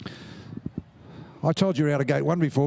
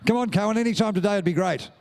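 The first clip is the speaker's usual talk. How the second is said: laughing call; 3 semitones higher than usual. Real, not acted. Urging slow jockey, laughing.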